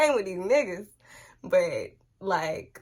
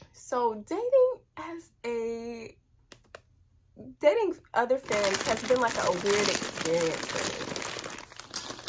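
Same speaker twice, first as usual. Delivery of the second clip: talking while chewing chips; words round a mouthful of chips; crunching chips; 2 semitones higher than usual. Real, not acted. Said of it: "Got me crunching chips".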